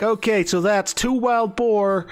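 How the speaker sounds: lightly voiced innkeeper repeating an order; a hint of a chirpy innkeeper; obliging innkeeper. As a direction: read the order back like a friendly host. Game master voices the innkeeper.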